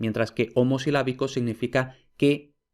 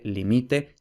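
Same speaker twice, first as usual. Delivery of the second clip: LImite, said with the stress on the first syllable; teacher stresses the first syllable of limite; stress shown. Shown as a demonstration. Teacher contrasting stress positions, stressing the first syllable. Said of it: "como lo que he dicho antes".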